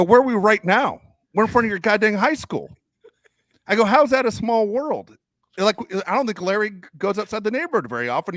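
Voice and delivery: high-pitched incredulous rant; exasperated arguing. Retold or imitated. Son arguing with dad outside the high school, exasperated. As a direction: argue back in mounting disbelief. Acted quarrel with his dad.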